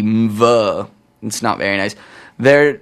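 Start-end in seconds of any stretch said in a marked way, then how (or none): 0.0-0.9 "mv" with a hummed m into v; mv sound. Shown as a demonstration. DJ sounding out a tricky title on air. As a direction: hum into "mv". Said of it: "and then an M V".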